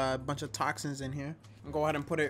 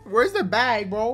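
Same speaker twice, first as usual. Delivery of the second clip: urgent shout; 7 semitones higher, 8 dB louder, slower than usual. Real, not acted. About to throw up.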